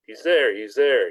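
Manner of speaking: slow, hammed-up shrill yell; a touch of a shrill shout. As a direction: call it out slowly like a mild mock alarm. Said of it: "he yelled in a shrill voice".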